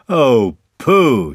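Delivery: high, loud exclamation; admiring. A narrator's reading. Friends admiring Pooh's present, admiring. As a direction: exclaim with falling wonder.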